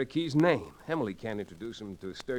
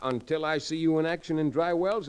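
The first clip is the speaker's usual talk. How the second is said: laughing; 7 semitones higher, 4 dB louder than usual. Real, not acted. Judge teasing, laughs.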